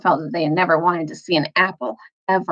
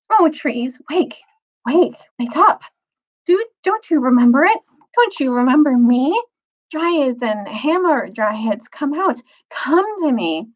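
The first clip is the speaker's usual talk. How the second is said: higher, yearning plea; pleading call; 5 semitones higher than usual. Acted. Lucy begging the Narnian trees to wake, eager plea. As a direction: coax the trees awake, eager and hopeful.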